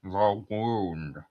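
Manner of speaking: put-on old Hollywood transatlantic accent; glamorous old Hollywood star in transatlantic accent. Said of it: "this transatlantic accent".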